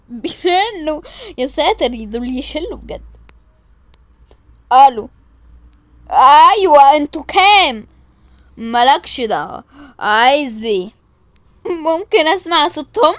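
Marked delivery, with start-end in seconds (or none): 4.7-10.9 loud, hammed-up tough kidnapper; changed kidnapper voice. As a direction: bark it like a mock gangster. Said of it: "أنا بعرف أغير صوتي قوي". (صوت خاطف متغير، عالي ومصطنع)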